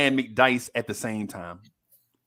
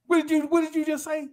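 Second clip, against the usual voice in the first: much higher, disbelieving voice; mock shocked teacher; 13 semitones higher than usual. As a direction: stammer it in outraged disbelief.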